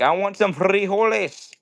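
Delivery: hammed-up Mexican accent, rolling the R hard; mock Mexican accent. Shown as a demonstration. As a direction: attempt a cartoonish Mexican accent. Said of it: "like, a Mexican accent?".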